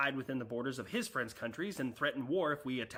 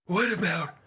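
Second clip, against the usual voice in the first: loud, put-on catchphrase voice; practicing awful catchphrases; 2 semitones higher, 7 dB louder, slower than usual. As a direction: pitch the next catchphrase loudly. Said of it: "awful catchphrases".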